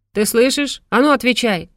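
loud, sharp angry demand; growled demand. A narrator's reading. Mother growls at her silent son, angry. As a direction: snap at a son who won't answer. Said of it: "рыкнула мать".

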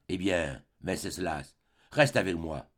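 low, soft entreaty; subdued plea. A narrator's reading. Woman begging the artist to stay with her, low and subdued.

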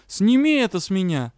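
loud, angry demand; seething shrieking spirit. Acted. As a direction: demand it with fury. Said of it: "потребовал злой дух".

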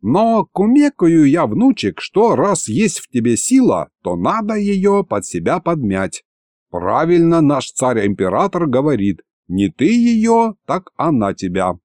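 folksy advising grandpa. Acted. Grandpa explains power to his grandson, lightly folksy and instructive.

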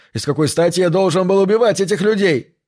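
high-pitched, indignant protest; indignant cry. A narrator's reading. Accused man demands a reason from his accuser, crying out. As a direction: raise the pitch and protest your innocence. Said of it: "закричал он".

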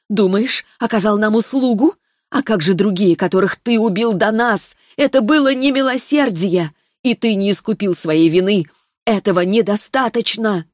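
put-on a child spirit passing sentence, unhurried; sweet young voice. Spirit rebukes the killer.

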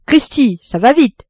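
high, loud amazed exclamation; exclaimed with conviction. A narrator's reading. Father marvels at the ship's speed, with conviction. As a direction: declare it emphatically, impressed. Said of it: "déclarait Roland avec une conviction".

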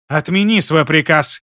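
angry. Acted. Sister demands angrily.

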